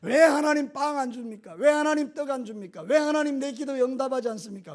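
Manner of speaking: a hint of a whiny believer grumbling at God; mock complaining. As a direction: lightly imitate a petulant complainer. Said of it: "원망하고 불평합니다". (가볍게 흉내 낸 투정)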